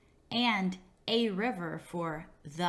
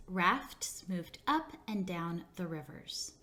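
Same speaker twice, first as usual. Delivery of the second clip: model sentence, slow; 2 semitones lower, 3 dB quieter than usual. Shown as a demonstration. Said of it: "Let's practice with the sentence".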